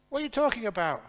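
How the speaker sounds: high, loud, incredulous scolding; exasperated holy snake. Acted. Holy snake scolds the foolish bad snake, high loud disbelief.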